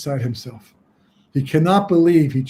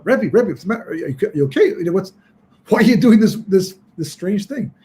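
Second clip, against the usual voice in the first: alarmed calling out; 4 semitones higher, 3 dB louder than usual. Acted. Students find rebbe in snow.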